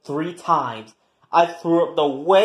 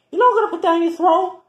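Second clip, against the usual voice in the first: heated threat; 12 semitones higher, much faster than usual. Acted. Threatening roommate mid-argument.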